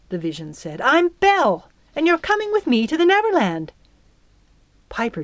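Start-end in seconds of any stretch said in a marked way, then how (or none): 0.8-3.7 high, quick, forceful announcement; brusque fairy. A narrator's reading. Fairy announcing herself to stunned girl, brusque and high. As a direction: introduce yourself and give orders in one rush.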